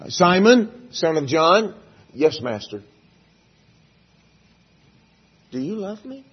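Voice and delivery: Jesus asking again. Acted.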